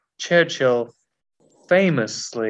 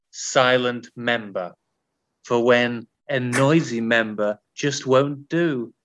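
camp perfume advert. Acted. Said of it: "such a camp perfume advert".

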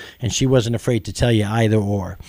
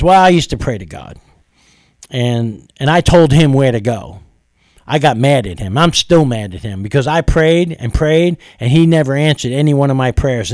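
louder, resentful retelling of Dolores; bitter complaint; 2 semitones higher, 5 dB louder than usual. Retold or imitated. Waitress Dolores admitting she's mad at God: louder, bitter. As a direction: let her grudge against God come through, louder.

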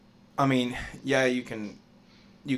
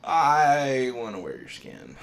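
creepy quote; 7 dB louder, slower than usual. Retold or imitated. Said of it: "that reminds me, Family Guy".

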